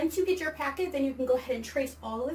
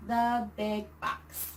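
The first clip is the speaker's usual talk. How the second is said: slow model reading; 4 semitones lower, much slower than usual. Shown as a demonstration. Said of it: "I'm gonna read it and then".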